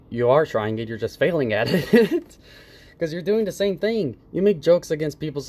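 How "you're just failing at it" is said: laughing scorn. Real, not acted. Mocking laugh at Carlos.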